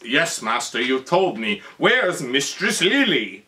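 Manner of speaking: imitated henchman, drawing out the question; Igor. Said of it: "Igor goes".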